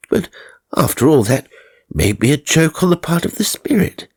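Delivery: wondering aloud, bemused and curious; newly dead gentleman musing. Acted. A dead man puzzling over time to himself, lightly bemused.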